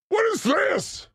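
high, drawn-out incredulous shout; mock shock. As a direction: stretch it out in exaggerated disbelief. Acts out his shock at a tweet.

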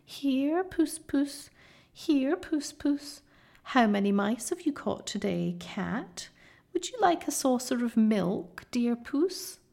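high, sing-song jeering of a cruel mob; jeering creatures. A narrator's reading. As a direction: taunt him like a cat. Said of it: "jeering at him".

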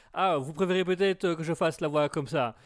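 booming God voice with echo. Acted. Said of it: "c'est l'écho qui me manquait". (voix de Dieu avec écho)

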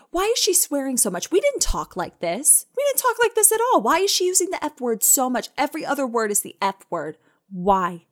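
high-pitched mock outrage, easing toward the end; imitated indignant grandma. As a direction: imitate a scandalized grandma complaining about swearing. Imitating grandma complaining about TV swearing.

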